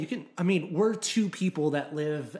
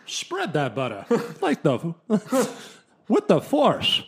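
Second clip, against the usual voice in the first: Herbert as Patrick Stewart; 3 semitones higher, 4 dB louder, slower than usual. Pretend. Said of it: "he would be more like this".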